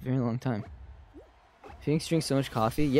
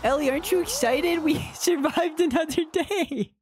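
excited; 13 semitones higher than usual. Real, not acted. Celebrating surviving the round.

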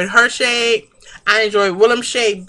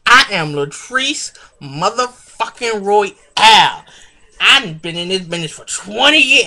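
Latrice Royale impression. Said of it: "let me see if I can do an impersonation of Mother".

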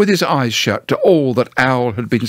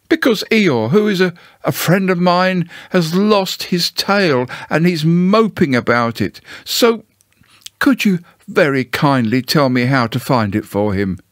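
higher-pitched storybook bear, earnest; lightly voiced Pooh, pleading; 5 semitones higher than usual. Pooh asks Owl to help find Eeyore's tail, gently pleading. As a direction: ask kindly for help as a simple bear.

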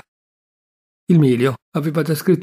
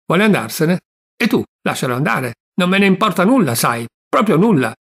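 loud, higher defiant snap; defiant outburst; 4 semitones higher, 3 dB louder than usual. Acted. Venerina tells her uncle she doesn't care, loud and defiant. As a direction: fling it out, pretending not to care. Niece defiantly dismisses the stranger.

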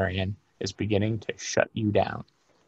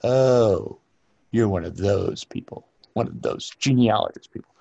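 dismissive archivist. Retold or imitated. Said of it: "the archivist like".

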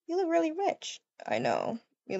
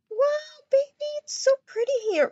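higher and fast, gushing; excited; 9 semitones higher than usual. Pretend. Girlfriend admiring the house, fast high gushing. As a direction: rush out the praise.

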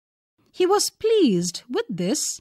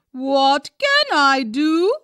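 pleading little skunk; 4 semitones higher, 6 dB louder than usual. A narrator's reading.

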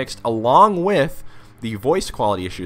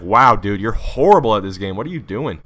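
mock scolding, a bit louder; imitated unhappy teammate; 5 dB louder than usual. Unhappy teammate to a bad player, mock scolding. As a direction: lightly play a disgusted teammate. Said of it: "he's not happy. He's like".

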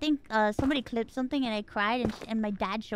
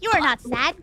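raised, challenging mock interrogation; imitating incredulous mom; 9 semitones higher, 9 dB louder than usual. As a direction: demand it like a disbelieving mom, building louder. Mom confronting her, voiced.

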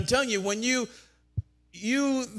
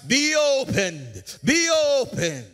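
rising, higher ringing shout; shouted decree; 5 semitones higher, 4 dB louder than usual. Real, not acted. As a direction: command it loudly over them. Shouted decree over congregation.

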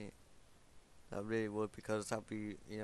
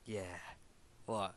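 normal talking voice

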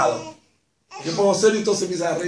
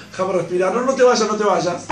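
louder clinging no te vayas; clingy plea; 6 dB louder than usual. Pretend. Wife clinging to husband, loud pleading. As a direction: hold on and beg him not to go.

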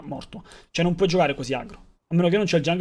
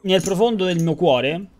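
mock sincere; 3 dB louder, slower than usual. Mock deep sincere advice.

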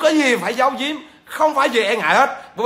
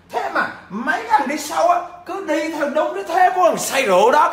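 higher, laughing through the words; 6 semitones higher than usual. Real, not acted. Livestream teacher mocks the drunkards' followers, laughing. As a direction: chuckle at the silly followers.

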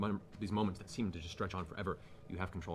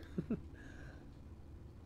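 soft throaty chuckle of a villainess; 6 dB quieter than usual. Acted. Lady amused across the room, throaty chuckle. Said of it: "a throaty chuckle from".

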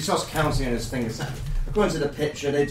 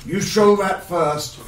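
bugbear voice; 5 dB louder than usual. Acted. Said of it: "And he goes".

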